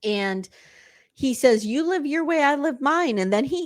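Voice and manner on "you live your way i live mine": mock prickly, defensive tone, pitched up. Retelling a scene where he answers her: imitating a defensive retort. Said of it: "He gets very defensive".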